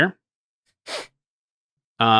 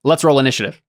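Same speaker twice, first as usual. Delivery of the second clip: repeated louder, clearer; 3 semitones higher, 4 dB louder than usual. Real, not acted. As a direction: say it again, louder for him.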